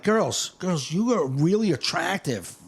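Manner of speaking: put-on drawn-out, emphatic appeal to the girls; retold appeal. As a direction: stretch it out, addressing the table. Retold address to audience women.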